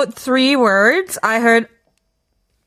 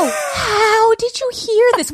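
laughing; 9 semitones higher, slower than usual. Real, not acted. Kagum sambil tertawa.

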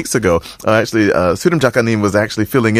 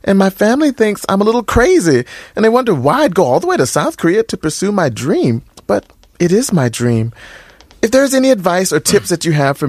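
lifted, higher woman's voice reading a fan letter; female voice; 6 semitones higher than usual. Acted. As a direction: read it as the young woman who wrote in. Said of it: "should I read it in the female's voice".

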